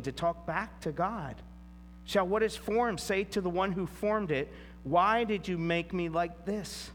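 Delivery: measured, solemn reading of the passage aloud; preacher reading Scripture to the congregation, solemn. Acted. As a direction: read the verses with weight and care.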